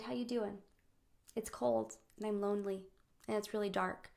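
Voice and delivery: soft, halting, intimate murmur; hushed, tender storytelling voice; gentle bear dialogue. Acted. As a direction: speak softly, sitting close in the dark. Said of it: "he sits with the little bear".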